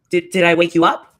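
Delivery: low-pitched teasing question, rising at the end; low mock question. She mockingly asks Dre about waking, low voice. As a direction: start it low, then lift on "up".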